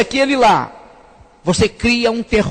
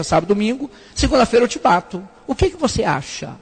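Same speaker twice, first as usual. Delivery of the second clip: gentle father; 2 semitones lower than usual. Retold or imitated. Pastor recalls offering his son a delay, gently coaxing. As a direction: talk sweetly to a little boy. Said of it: "father talks to his son".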